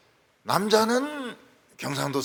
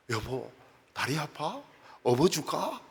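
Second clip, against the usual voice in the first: tender Seoul husband; 3 dB quieter than usual. Retold or imitated. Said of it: "서울은 뭐 애정 표현이 뭐 굉장하죠".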